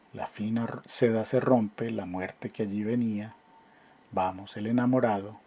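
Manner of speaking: measured, expressive ballad reading; poem recital. Acted. Teacher reading the ballad to class, expressive recital. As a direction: recite the old romance with feeling.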